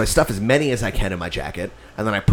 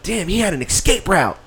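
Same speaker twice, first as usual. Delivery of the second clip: mock awe; 7 semitones higher than usual. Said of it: "And I'm like".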